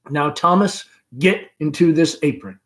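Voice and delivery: mother sending the caller to her daughter; Amanda. Acted. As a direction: chatter on brightly. Amanda to Tom.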